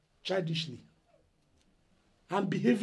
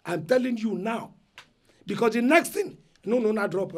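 louder, threatening tone; angry warning; 3 semitones higher, 5 dB louder than usual. Acted. Eldest son threatening the relatives out loud. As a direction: warn them hard, rising threat. Elder brother threatens family.

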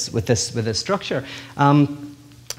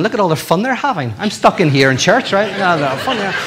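envious churchgoers; 5 semitones higher than usual. Retold or imitated. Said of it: "the guys are going".

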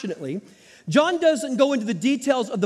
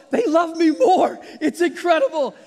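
gloating laugh; 5 semitones higher than usual. Retold or imitated. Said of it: "I thought to myself".

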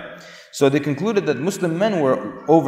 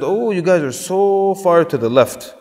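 higher, drawn-out imitation of shocked onlookers; mock astonishment; 5 semitones higher, 3 dB louder, slower than usual. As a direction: exaggerate their disbelief, stretching the words. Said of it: "looked at the Muslims and said".

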